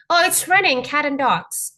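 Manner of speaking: mock-amazed remark about the weather; acted exclamation. Shown as a demonstration. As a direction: exclaim it lightly as a sample idiom. Acts out an example of hyperbole.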